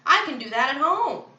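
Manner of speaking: high, loud indignant protest; crying out. A narrator's reading. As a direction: call out your objection. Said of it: "cried the woman with dyed hair".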